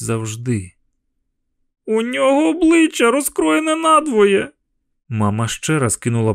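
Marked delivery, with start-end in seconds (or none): 1.9-4.5 put-on high, urgent child's cry; a scared boy blurting out what he sees; frightened boy. A narrator's reading. Terrified boy cries out.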